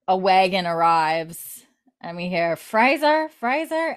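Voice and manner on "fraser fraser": mock calling out. Someone calling out from wagon.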